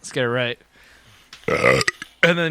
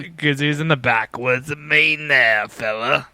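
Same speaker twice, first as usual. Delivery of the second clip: put-on Maine accent. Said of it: "That's how they talk up there".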